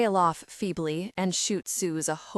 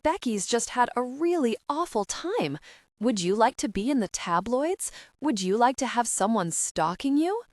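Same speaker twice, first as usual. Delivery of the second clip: outburst; 4 semitones higher than usual. Acted. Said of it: "says Suze in a burst".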